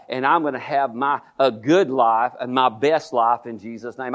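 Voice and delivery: defiant to the devil. Pretend. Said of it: "all you gotta do is say".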